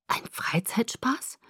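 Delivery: slow, whispered, stunned echo; breath-only question, rising at the end; dazed. Acted. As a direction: repeat it in numb disbelief. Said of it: "wiederholte ich benommen".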